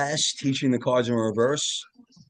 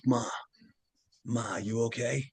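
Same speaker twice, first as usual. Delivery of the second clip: whispering; 6 dB quieter than usual. Retold or imitated. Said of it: "Why are you whispering?".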